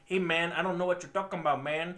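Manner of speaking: imitated Hispanic accent; mock a fox character's Hispanic accent; put-on movie accent. Mocking an actor's unsteady Hispanic accent as Swiper. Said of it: "I don't think he could hold an accent".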